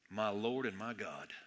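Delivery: low, slow and soft, in reverent awe; hushed reverent confession. Retold or imitated. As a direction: breathe it out like a confession. Thomas's awed confession, quoted.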